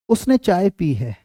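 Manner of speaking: slow dictation. Shown as a demonstration. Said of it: "अगर मैं कहता हूँ".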